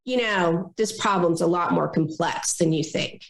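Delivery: passive aggressive. Retold or imitated. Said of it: "I love the passive aggressive".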